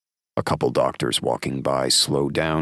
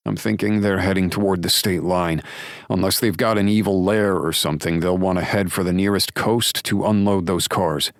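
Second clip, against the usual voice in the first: a lightly voiced lawman thinking aloud; the deputy working out the route; lightly voiced Drake, steady and sure; Drake's voice, reasoning; 7 semitones higher, 4 dB louder than usual. Drake's theory on the phone.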